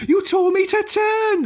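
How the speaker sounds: high, slow, indignant Welsh lilt; Welsh accent. Retold or imitated. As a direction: whine it like a put-out Welsh learner driver. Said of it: "I'm gonna do the accent in a minute".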